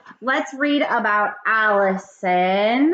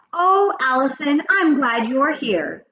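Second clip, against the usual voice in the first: higher, drawn-out glad welcome; pleased greeting; 6 semitones higher, slower than usual. A narrator's reading. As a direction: greet a pupil with relief, lightly acted. Teacher greets pupil in story.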